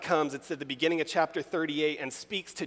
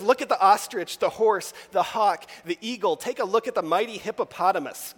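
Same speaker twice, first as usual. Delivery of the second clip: higher, louder, eager calling out; fired-up God; 5 semitones higher, 4 dB louder than usual. Retold or imitated. Preacher voicing an excited God showing off creation. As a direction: point proudly at each animal. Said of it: "God is really fired up about".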